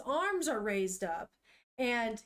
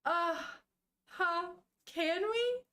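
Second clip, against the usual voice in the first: put-on higher, slow hopeful little girl voice; 6 semitones higher, slower than usual. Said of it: "And she goes".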